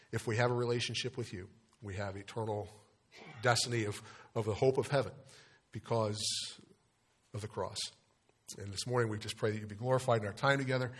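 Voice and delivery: subdued, unhurried public prayer; a pastor's gentle opening prayer. Real, not acted. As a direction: pray quietly and reverently, pausing between phrases.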